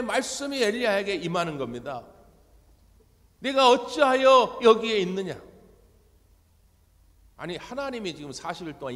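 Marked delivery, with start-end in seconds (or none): 3.4-5.4 much louder, higher booming question; God confronting Elijah, loud and higher. Acted. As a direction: call out like God demanding an answer. Voicing God's question.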